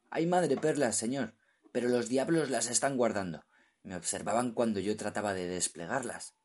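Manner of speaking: high, fearful and urgent; pleading in fear; frightened. Acted. Terrified diver.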